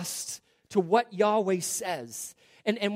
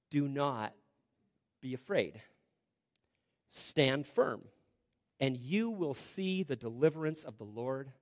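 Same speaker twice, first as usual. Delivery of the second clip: calm reassurance; 3 semitones lower than usual. Acted. Reads Moses' calming words to Israel.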